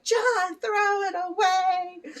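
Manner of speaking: high, loud, slowed command; mock stern order. Ordering video character John to bin his food, high and loud. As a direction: boss the cartoon John around. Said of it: "So I was like".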